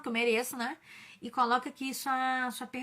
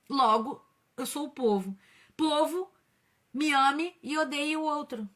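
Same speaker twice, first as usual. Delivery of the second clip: slow, raised call to the people; mock demagogue; 4 dB louder, slower than usual. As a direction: lightly ham up a populist's plea. Mock politician addressing the people.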